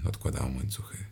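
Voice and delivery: ordinary delivery, nothing marked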